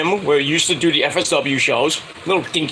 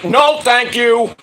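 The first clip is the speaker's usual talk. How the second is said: emphatic refusal; 7 semitones higher, 4 dB louder, much slower than usual. Retold or imitated. Retold refusal after being hit.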